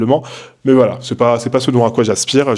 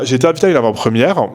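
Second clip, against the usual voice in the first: Parisian accent. Real, not acted. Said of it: "pourquoi je peux pas dire ce mot normalement".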